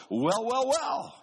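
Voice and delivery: high, loud drawn-out wells; church women calling. Retold or imitated. Women waving hankies, calling out high and loud. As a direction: sing out approval like the church women. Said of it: "they wave 'em and they go".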